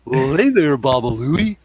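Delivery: cartoon voice. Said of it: "watched too many cartoons".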